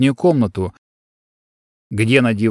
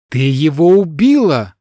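loud, higher furious roar; roaring accusation; 4 semitones higher, 4 dB louder than usual. Acted. Son accuses the girl, loud furious roar. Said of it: "взревел он".

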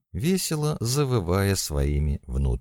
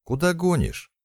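high, contained narrated yell; alarmed shout; 7 semitones higher than usual. A narrator's reading. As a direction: protest sharply, pitch leaping at the end. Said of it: "закричала Лика".

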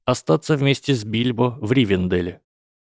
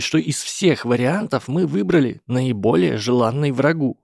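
put-on higher, earnest young hobbit; 6 semitones higher than usual. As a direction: argue urgently, pitched high. Frodo voiced by narrator.

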